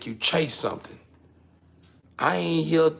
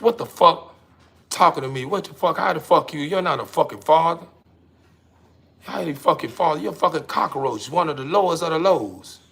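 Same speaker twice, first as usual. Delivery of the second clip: louder, furious shouting at the cockroach; angry outburst; 3 semitones higher, 4 dB louder than usual. Acted. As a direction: yell at the bug that claims to be God. Person yells at the cockroach.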